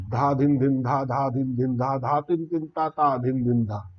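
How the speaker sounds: quick chanted bols, gaps shortened. Shown as a demonstration. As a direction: push the tempo up further. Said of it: "अगर हम इसको और तेज करेंगे".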